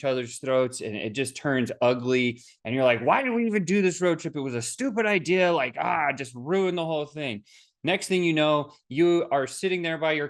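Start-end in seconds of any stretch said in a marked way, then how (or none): 3.0-7.4 higher, exasperated mock complaint; stranded friend griping about the ruined trip; frustrated friend. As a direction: vent like a fed-up buddy stuck on the road. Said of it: "You get angry".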